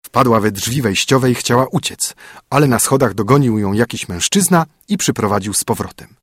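plain reading voice

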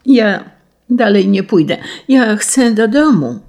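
put-on scared little girl whining in the dark woods; tearful whining. A narrator's reading. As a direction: sob out that you want to go home. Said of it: "mówiła jękliwie z łez".

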